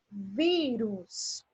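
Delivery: "vírus" with a long, drawn-out VÍ; "vírus" stretched on its stressed first syllable. Shown as a demonstration. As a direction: lean slowly on the VÍ of "vírus". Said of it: "quando eu escuto ela com um som mais forte".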